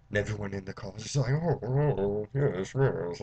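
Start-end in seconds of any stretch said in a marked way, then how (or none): 1.3-3.2 mock oohing from a class; impressed students. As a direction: imitate an awed lecture audience. College students murmur in awe.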